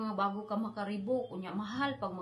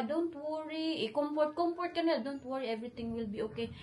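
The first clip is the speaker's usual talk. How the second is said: soothing; 5 semitones higher than usual. Retold or imitated. Slow soothing voice, elsewhere abroad.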